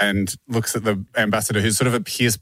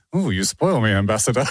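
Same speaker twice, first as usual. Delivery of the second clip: put-on posh accent. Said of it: "in sort of, like, quite a posh accent".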